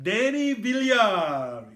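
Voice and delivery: put-on drawn-out Long Island accent. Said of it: "Is that your Long Island accent?".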